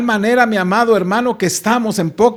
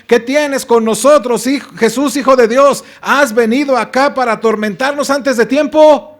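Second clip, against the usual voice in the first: demons crying out; 3 semitones higher than usual. Shown as a demonstration. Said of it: "Con una exclamación horrible".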